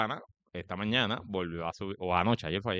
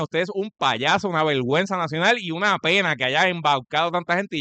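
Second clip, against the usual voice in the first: indignado; 5 semitones higher, 4 dB louder than usual. Real, not acted. Insulta al senador, dirigiéndose a él.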